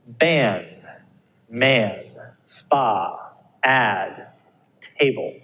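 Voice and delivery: each word read slowly and clearly; reading word list. Shown as a demonstration. Teacher reading simple words aloud to students, clearly. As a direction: model each word with a full vowel. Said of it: "I'll read these for you now".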